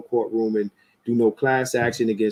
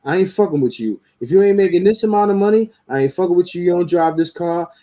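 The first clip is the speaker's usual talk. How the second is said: raised, mocking list of demands; mock the women laying out their terms; imitating women's demands; 5 semitones higher than usual. Man mimicking women listing their dating demands, mocking. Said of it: "They'll say".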